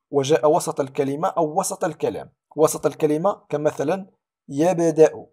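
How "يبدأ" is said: "يبدأ" with a bouncing echo on the b; قلقلة صغرى. Shown as a demonstration. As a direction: release the b in "يبدأ" with a tiny schwa. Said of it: "هنا نقلقله". (قلقلة الباء في "يبدأ")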